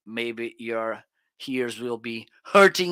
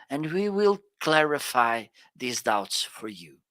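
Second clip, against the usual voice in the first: lightly put-on radio host, measured phrases; a touch of radio announcer, with pauses between phrases; radio station voice. Shown as a demonstration. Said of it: "this is how radio, amazing radio station sounds".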